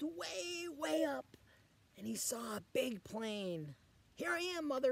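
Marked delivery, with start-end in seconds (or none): 4.1-4.9 high call to a far mother. Acted. Baby bird calls to the plane, high calling voice. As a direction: call up to the sky. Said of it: "he called out".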